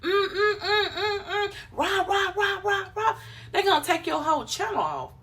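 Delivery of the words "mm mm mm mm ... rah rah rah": high mumbled mm and rah; mock bleeped cussing. A creator's cussing shown as high mock mumbles. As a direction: fake the bleeped swearing, high. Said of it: "if every video is".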